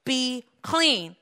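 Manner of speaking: fuller-voiced, firm order; plainly spoken, decisive command. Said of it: "He commanded".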